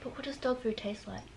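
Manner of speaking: nervous whispered question. Real, not acted. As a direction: whisper it, worried. Worried before dog food bean.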